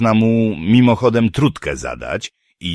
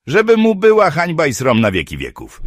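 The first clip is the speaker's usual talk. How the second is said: mocking dwarf; 10 semitones higher, 4 dB louder than usual. A narrator's reading. Dwarf voiced, mocking poet scene.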